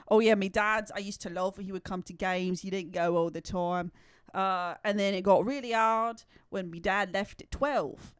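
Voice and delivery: mock British storytelling voice; imitated British accent. Imitating a player's story about his dad, mock British accent. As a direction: tell it in a put-on British accent. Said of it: "he tells a story about".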